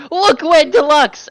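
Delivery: slow, high, shouted alarm; loud shout. Acted. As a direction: yell it to distract everyone. Pointing out the window to distract.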